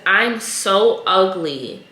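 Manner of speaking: slow, mournful little girl's plea, lightly voiced; retold crying girl. Retelling a little girl telling her mom, slow and sad. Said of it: "She was crying".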